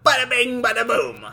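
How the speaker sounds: high Brooklyn wise guy, half laughing; Brooklyn accent. Pretend. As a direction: toss it off like a Brooklyn mobster. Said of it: "forced to use a Brooklyn accent".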